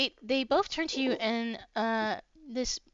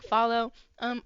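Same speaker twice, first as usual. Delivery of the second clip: normal talking voice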